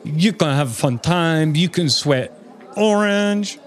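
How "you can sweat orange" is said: slow and raised, goofy; high, slow silly voice. Acted. Silly riffing.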